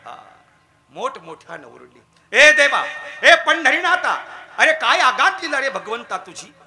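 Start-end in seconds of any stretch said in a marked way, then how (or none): 2.4-6.5 priest crying out in anguish at midnight; loud lament. Acted. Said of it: "ओरडले मोठ्यानं".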